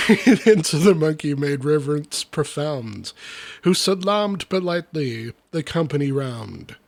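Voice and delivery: lively, rhythmic storybook reading; verse recitation. Acted. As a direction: read the rhyming tale with bounce. Reads comic verse aloud.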